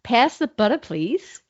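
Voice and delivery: Australian trying American; attempted American accent. Shown as a demonstration. Student showing the dialect coach, attempted American accent. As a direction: have a tentative go at an American accent. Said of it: "So American first for you".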